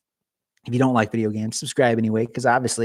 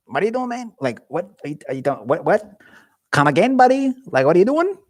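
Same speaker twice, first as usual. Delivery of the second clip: high, incredulous questioning; confronting brother over Windows install, incredulous; mock exasperation; 5 semitones higher than usual. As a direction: act out disbelief at your brother.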